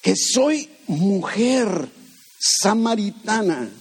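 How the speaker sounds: incredulous woman. Acted. Voicing the Samaritan woman.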